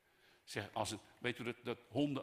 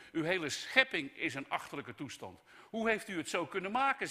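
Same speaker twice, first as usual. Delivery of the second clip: loud, raised accusation thrown at God; indignant Job; 7 semitones higher, 5 dB louder than usual. Acted. Job reproaching God over his creation, indignant. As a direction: hurl the complaint upward. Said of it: "Job gooit God alles voor zijn voeten".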